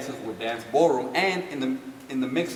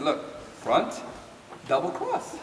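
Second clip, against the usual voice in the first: proud reveal; 4 semitones higher, slower than usual. Retold or imitated. Proudly telling June the name.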